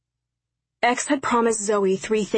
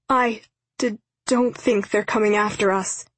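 halting, frightened. Acted. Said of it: "she said haltingly".

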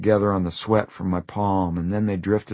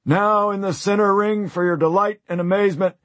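circus ringmaster; 11 semitones higher than usual. Acted. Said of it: "don't forget the spiel".

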